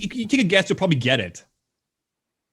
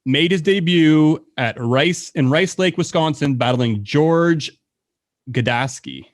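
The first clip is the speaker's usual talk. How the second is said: quiz host read; slower than usual. Acted. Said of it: "quizmaster reads question".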